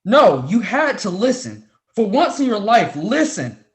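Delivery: loud, furious reprimand; angry outburst. Acted. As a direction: shout her down to make her listen. Professor scolding student on phone.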